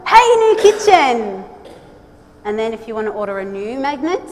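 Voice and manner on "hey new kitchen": high, loud ta-da of new kitchen; loud, slowed game-show reveal; showy reveal. Acted. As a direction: present it like a magic trick.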